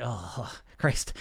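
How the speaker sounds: low, soft worn-out groan; exhausted. Acted. Worn-out client after a hard week, exhausted sigh. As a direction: let it sag out, spent. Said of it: "when you're feeling exhausted".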